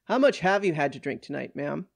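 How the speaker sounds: brisk, firm official question; stern questioning. Acted. Policeman cutting off a woman to ask about drinking, stern. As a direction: cut in firmly and fast. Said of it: "cuts her off sternly".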